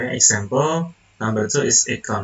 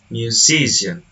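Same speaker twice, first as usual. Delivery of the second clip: "Musician" with stress on the second syllable, si; demonstrated word stress. Shown as a demonstration. Teacher showing how the suffix moves stress, demonstrated word stress. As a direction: stress the middle of "Musician": mu-SI-cian. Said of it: "Just like that".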